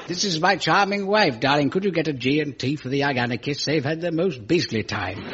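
lightly voiced plummy Englishman; a hint of a genteel upper-class host; posh consul. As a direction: play the gracious old-school diplomat. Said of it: "He said".

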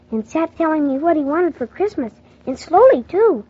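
low slow storyteller; story narration. A narrator's reading. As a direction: narrate the ending calmly. Closing narration.

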